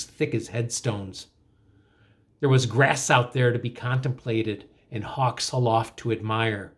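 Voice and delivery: narrative poem read with lively lifts; poem recitation. Acted. Teacher telling of a missing poet, animated poem recitation. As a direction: recite the tale in measured, emphatic phrases.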